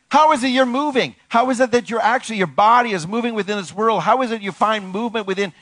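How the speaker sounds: fervent preacher building momentum; impassioned preaching. Real, not acted. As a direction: pitch up high and press each question. Preaching at full force.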